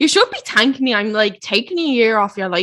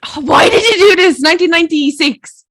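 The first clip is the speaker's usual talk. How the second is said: flustered; 7 semitones higher, 5 dB louder than usual. Real, not acted. Panicked guess of birthday year.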